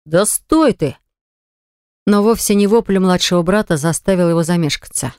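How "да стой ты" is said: shout. Acted. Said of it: "как Артур закричал".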